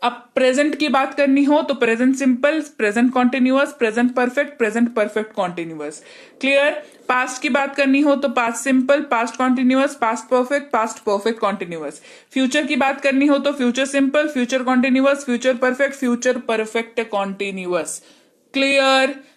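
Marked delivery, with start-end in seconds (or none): 1.7-6.0 fast drilled listing, last item rushed; rapid rote list. Shown as a demonstration. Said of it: "जितनी तेजी से मैंने बोला है". 8.3-12.0 fast drilled listing, last item rushed; rapid rote list. Shown as a demonstration. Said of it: "जितनी तेजी से मैंने बोला है". 13.5-18.0 fast drilled listing, last item rushed; rapid rote list. Shown as a demonstration. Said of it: "जितनी तेजी से मैंने बोला है".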